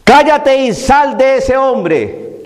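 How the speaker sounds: preacher acting out Christ's command; Jesus rebuking the demon. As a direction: draw out each word like a solemn rebuke.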